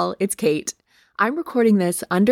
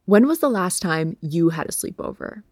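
muffled under a blanket. Real, not acted. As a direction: speak from under the covers. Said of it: "I'm recording this under a blanket".

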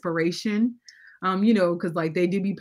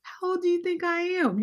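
mock offended; 10 semitones higher than usual. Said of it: "I'd be like".

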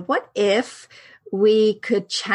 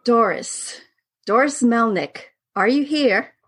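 seance medium; 2 semitones higher than usual. Acted. Host channels dead character at seance.

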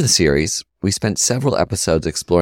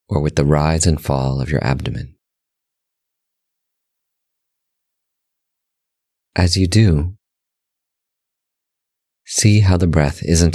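guided meditation; 4 semitones lower than usual. Real, not acted. Host leading listeners through breath meditation, calm guided-meditation voice. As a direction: guide them gently in short, measured phrases, pitch settled and level.

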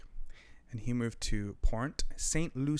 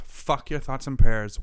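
slow, louder, bitter dismissal; angry; 9 dB louder, slower than usual. Real, not acted. Podcaster raging about the shooting, slow angry outburst. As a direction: spit it out in slow fury. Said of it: "because I'm so angry".

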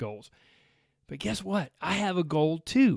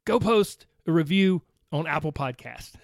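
loud, pointed call to each listener, higher; playful loud call-out; 4 semitones higher, 6 dB louder than usual. Pretend. Host calling out listeners to post reviews, loud playful demand. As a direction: jab the finger at the listener and call them out loud. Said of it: "So this is me saying".

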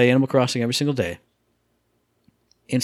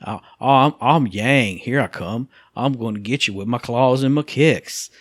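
put-on Southern accent. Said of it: "like, a Southern guy".

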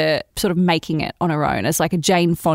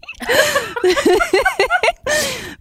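real burst of high laughter. Real, not acted. Laughing at disturbing content.

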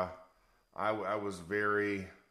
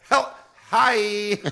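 giddy, laughing from no sleep; sleep deprived; 10 semitones higher, 10 dB louder than usual. Real, not acted. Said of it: "Max is delirious from lack of sleep".

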